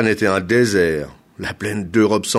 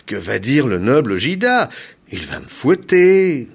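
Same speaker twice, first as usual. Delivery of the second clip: moaning protest; 5 semitones higher, 5 dB louder than usual. A narrator's reading. Hair planter fearing his noble client's whip, moaning. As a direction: moan about the coming punishment. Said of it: "gémit Agabunda".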